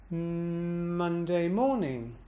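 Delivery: slow, hummed start, pitch peak on "morning"; bounce on morning. Shown as a demonstration. Teacher moving the emphasis, bouncing on morning. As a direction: intone evenly through "Monday", then swoop up and down on "morning". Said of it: "Listen one more time again".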